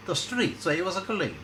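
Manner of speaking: a put-on Russian woman, reminiscing; bad Russian accent. Ivana dreamily recalling Siberia, bad Russian accent. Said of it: "in a bad Russian accent".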